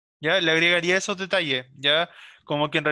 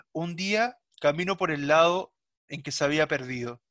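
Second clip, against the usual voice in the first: suspenseful storytelling. Shown as a demonstration. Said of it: "tiene que ir dando los detalles de a poco".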